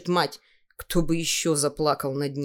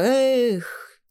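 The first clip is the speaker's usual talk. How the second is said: wave's cry; 7 semitones higher than usual. Acted. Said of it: "крикнула".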